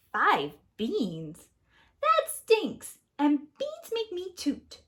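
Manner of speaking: high, loud complaint; indignant Jack. Acted. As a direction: sound outraged at the deal. Jack voiced in story.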